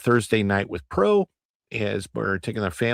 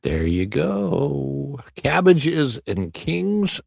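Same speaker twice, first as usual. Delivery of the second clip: slowed, high effect voice; 4 semitones higher, much slower than usual. Pretend. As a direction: stretch each word slowly.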